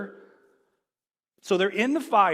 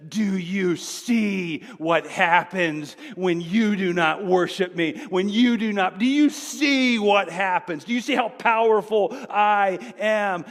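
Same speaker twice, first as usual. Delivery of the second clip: boastful king; 4 dB louder than usual. Retold or imitated. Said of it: "and says".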